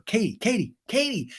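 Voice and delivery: high, mock urgent name-calling; calling after someone. Recapper acting Lala following Katie, high imitation calling.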